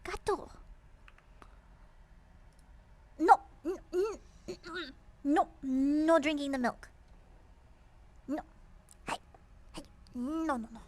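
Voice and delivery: yelling at the cat. Real, not acted. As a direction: shout to stop the cat. Stopping cat drinking milk.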